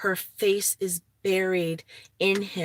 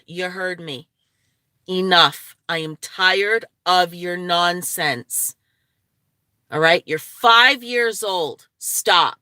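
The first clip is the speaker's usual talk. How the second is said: slow, firm scolding of the dog; stern, fed-up telling-off; 4 dB louder, slower than usual. Real, not acted. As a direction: lay down the law slowly. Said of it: "sorry that I yelled that way".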